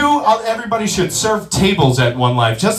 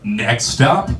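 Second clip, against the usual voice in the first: lower, slow station announcement; drawn-out conductor calling the stop; train announcer; 9 semitones lower, slower than usual. Retold or imitated. Comic imitating Long Island Railroad announcer, low and slow. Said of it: "the voice of the Long Island Railroad".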